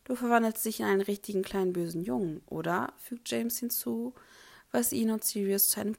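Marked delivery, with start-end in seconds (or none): 0.0-2.9 teasing whisper. Acted. James mocks Remus with Sirius.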